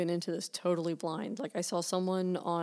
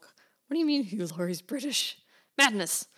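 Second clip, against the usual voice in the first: mock disbelief; 4 semitones higher, 4 dB louder than usual. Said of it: "I was all of a sudden like".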